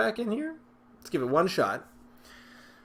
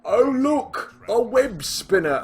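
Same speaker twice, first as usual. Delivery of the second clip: mock delight; 11 semitones higher, 8 dB louder, slower than usual. Mock delight at drawn card.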